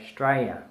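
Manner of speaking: Australia said as "Straya"; Aussie shortened pronunciation. Shown as a demonstration. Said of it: "we say Australia".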